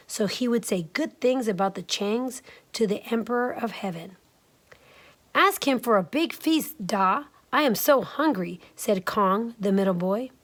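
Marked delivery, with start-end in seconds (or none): 5.3-8.6 put-on lightly raised, pleading kid voice; a hint of a whiny hungry boy.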